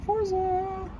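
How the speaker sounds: high, held, soft call; high drawn-out call. Real, not acted. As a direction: sing out the name on one high note. Calling out a name.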